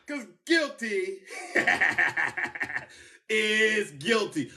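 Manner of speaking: slow, weighted guilty is guilty; emphatic. Real, not acted. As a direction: lean on each word, laugh between. Emphatic verdict statement.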